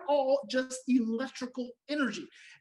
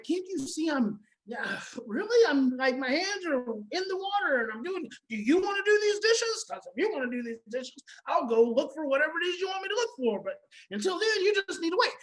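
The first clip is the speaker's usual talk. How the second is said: irritated parent at the sink; 4 semitones higher than usual. Retold or imitated. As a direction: act out the sarcastic pushback while doing dishes. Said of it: "or you're like".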